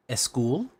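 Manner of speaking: "a school" run together as one word, eh-school; added sound before S. Shown as a demonstration. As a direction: put a short vowel before the S in "a school". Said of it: "You're gonna add S's".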